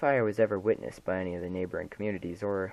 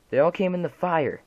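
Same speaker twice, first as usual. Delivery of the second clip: sobbing shout; 9 semitones higher, 9 dB louder than usual. Acted. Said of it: "She was sobbing at this point".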